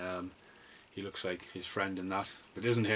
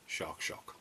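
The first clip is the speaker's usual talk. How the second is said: whisper; 4 semitones lower, 9 dB quieter than usual. Acted. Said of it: "title dropped in hushed aside".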